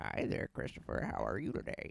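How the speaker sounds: slow, drawn-out, breathy cartoon character voice. Showing the others the voice used for Chris Griffin: Chris Griffin voice. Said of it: "that's how Seth Green made the voice of Chris Griffin".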